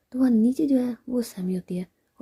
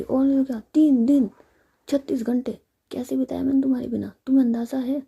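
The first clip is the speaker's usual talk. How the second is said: higher, louder, aggrieved reproach; hurt complaint; 4 semitones higher, 6 dB louder than usual. Acted. Ritika reproaches Sammy for leaving her, aggrieved and louder. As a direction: pour out three days of missing her.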